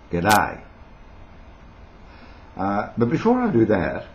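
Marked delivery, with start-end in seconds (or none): 0.1-0.6 "G'day" said briskly in an Australian accent. Shown as a demonstration. Showing viewers how to say it, Australian "G'day". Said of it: "do the Australian accent thing and how to say".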